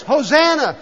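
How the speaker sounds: high, loud acted cry; top-of-the-voice shout. Preacher voicing healed lepers hailing Jesus, shouting. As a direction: shout it out like a jubilant crowd. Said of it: "shouting at the top of their voice".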